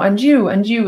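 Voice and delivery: "you" leaned on both times; stress on YOU. Shown as a demonstration. Teacher asking round a group, stress on "you". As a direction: point each "you" at a new person. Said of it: "putting emphasis on you".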